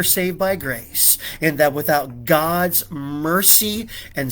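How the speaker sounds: rising sermon voice, pressing each question home; preaching. Acted. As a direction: preach it to the room, building conviction. Preaching to the congregation.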